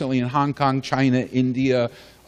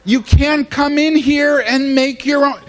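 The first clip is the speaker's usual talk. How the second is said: mock indignant crew chief; 11 semitones higher, 4 dB louder than usual. Crew chief scolding in retold story.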